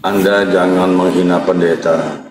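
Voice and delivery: solemn low pastor preaching; preacher voice. Acted. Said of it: "saya Pendeta John Timothy".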